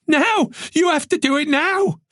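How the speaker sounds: high, panicked urgency; desperate, high-pitched insistence; frantic demand. A narrator's reading. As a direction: demand action at once, voice right up. Frantic demand to protect parents.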